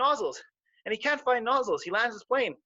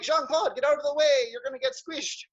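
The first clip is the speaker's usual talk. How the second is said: higher, urgent warning; elephant warning; 7 semitones higher than usual. Acted. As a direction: elephant shooing the little squirrel away. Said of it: "Nozzles is like".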